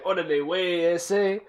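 mock Mexican slang. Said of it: "making fun of a Mexican person".

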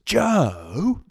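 put-on high, loud child's "Joe."; imitating little daughter. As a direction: call out like an embarrassed little girl. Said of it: "so she's always".

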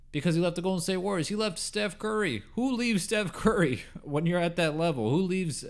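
high-pitched, worked-up disbelief; incredulous rant. Real, not acted. Sports host questioning why anyone leaves Steph Curry, incredulous. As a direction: pitch leaps up in baffled outrage.

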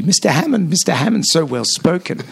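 put-on high, posh old-time Aussie starlet voice; Clancy from Skippy. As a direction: put on a prim, very proper eighties accent. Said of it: "she sounds like Clancy from Skippy".

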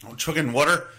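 Philly accent on "water" said "wooder". Shown as a demonstration. Mocking his own team's fans in a Philly accent. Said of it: "That stupid fucking Philly accent".

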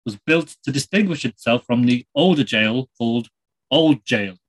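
put-on light Irish accent, chatty presenter; a lightly done Irish TV host; Terry Wogan. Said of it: "It's Terry Wogan here".

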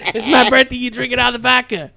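high-pitched mock complaint; whiny protest. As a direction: imitate an aggrieved birthday boy, voice way up. The speaker protests over his birthday vodka.

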